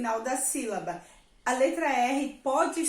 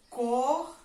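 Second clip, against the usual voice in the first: "corpo" broken into COR, long pause, PO; syllables separated. Shown as a demonstration. Teacher separating the word for pupils, syllables apart. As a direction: split "corpo" slowly at the syllable break. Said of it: "separar a palavra corpo".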